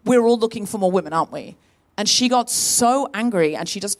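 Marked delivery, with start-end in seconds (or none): 0.0-1.6 high, flustered start easing down into apology; apologetic backpedalling. Retold or imitated. Comedian retelling her apology to the angry producer, apologetic backpedalling. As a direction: backpedal hastily, imitating your anxious apology. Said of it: "I started apologizing and going".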